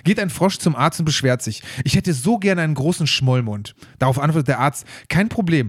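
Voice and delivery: measured read-aloud storytelling voice; joke reading. Acted. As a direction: read the joke out evenly, phrase by phrase. Reads another joke aloud. (Witz vorlesen)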